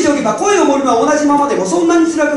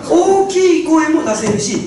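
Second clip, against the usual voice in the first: 大きい声 said bigger and slower; loud voice demo; 4 semitones higher, much slower than usual. Shown as a demonstration. Speaker demonstrating a big voice to the audience, louder. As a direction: show the big voice on 大きい.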